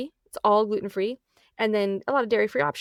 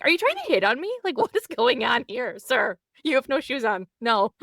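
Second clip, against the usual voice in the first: high, loud mock incredulity; indignant retort; 4 semitones higher, 4 dB louder than usual. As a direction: challenge the stranger in raised, affronted disbelief. Acts out indignant retort to stranger.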